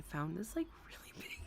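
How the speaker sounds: dropping to a breathless, soft squeak; losing composure. Real, not acted. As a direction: try not to laugh as the words give out. Girlfriend roleplay collapsing, retried after laughing.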